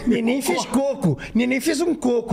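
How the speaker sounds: "coco" high and drawn out, sing-song; mock Brazilian pronunciation. Shown as a demonstration. Teasing the co-host over baby words, exaggerated pronunciation of "coco". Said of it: "Como é que tu fala?".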